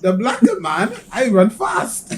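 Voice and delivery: mock Norwegian accent, rising ends; lightly put-on Norwegian accent. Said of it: "your Norwegian accent".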